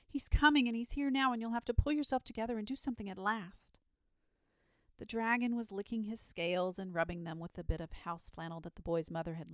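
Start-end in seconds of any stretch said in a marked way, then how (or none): 0.0-3.8 high, loud burst, easing toward the end; urgent shout. A narrator's reading. Boy rousing the idle dragon, urgently shouting. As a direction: shout the warning, then settle a little. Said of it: "he shouted as soon as".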